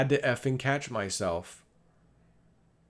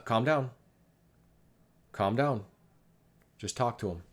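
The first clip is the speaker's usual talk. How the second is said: retold steadying word to oneself; calm self-talk. Father reminding himself to calm down, calmly. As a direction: settle yourself down, voice easing off as it goes. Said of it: "I was calm".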